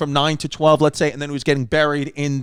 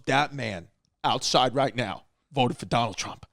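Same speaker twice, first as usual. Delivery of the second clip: slow dramatic announcement; 5 semitones lower, 6 dB quieter than usual. Retold or imitated. Dramatic quote of funeral director.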